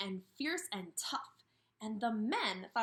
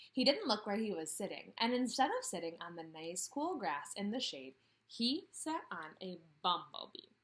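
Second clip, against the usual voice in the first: storybook read-aloud voice; reading to children; 2 semitones lower than usual. Acted. Teacher reads Ferdinand to her class, storybook manner. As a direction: read it like story time on the rug.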